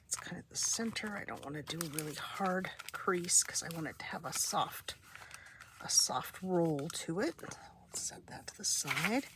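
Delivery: breathy whisper while crafting. Real, not acted.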